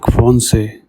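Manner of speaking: "français" with ç said as S; French "français", roughly "fron-say"; soft S sound. Shown as a demonstration. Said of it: "the C has a soft S sound".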